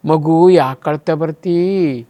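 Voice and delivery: a hint of a pleading, loving mother; doting mother. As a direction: coax the baby with endearments. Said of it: "ತಾಯಿ ಕೇಳಬೇಕಾದ ಪ್ರಶ್ನೆ ಇದು".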